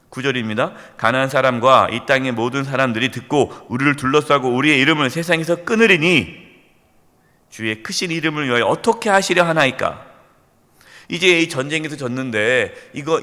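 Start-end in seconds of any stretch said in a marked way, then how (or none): 1.0-10.1 1 loud scripture reading. Acted. Scripture read at full force.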